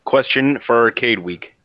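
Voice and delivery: flat robotic dictation voice. Acted. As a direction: speak like a voice assistant. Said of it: "your robotic voice was cool".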